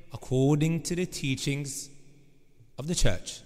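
put-on slow, low Scottish accent. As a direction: imitate a Scottish politician. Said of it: "in his Scottish accent".

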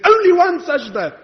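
"Only one sajda" pitched high with force; "Only one sajda" as a fervent, high exclamation; emphatic repetition. Real, not acted. Preacher repeats key phrase forcefully.

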